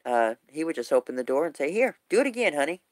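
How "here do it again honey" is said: imitating a husband's playful dare, pitched up; good-humored husband. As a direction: egg her on good-naturedly in a higher voice. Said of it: "got a very good spirit".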